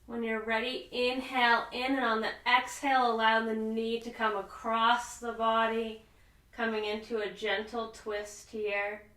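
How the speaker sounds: calm, unhurried yoga teacher with long pauses; soothing relaxation-class voice, lingering on the breathing cues; guided sleep yoga. Real, not acted. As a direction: ease them gently toward sleep, phrase by phrase. Leads restful yoga breathing.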